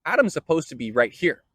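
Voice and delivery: an indignant God who can't find Adam where he left him; baffled exasperated Yahweh. Retold or imitated. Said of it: "Yahweh shows up in the garden and goes".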